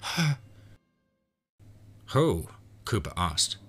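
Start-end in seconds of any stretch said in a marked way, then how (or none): 0.0-0.4 high, weak croaked repetition; failing woman's high croak. A narrator's reading. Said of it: "Martha croaked". 2.1-2.5 higher question, held just short of shouting; tense, reined-in question; restrained frustration. A narrator's reading. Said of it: "trying to not raise his voice".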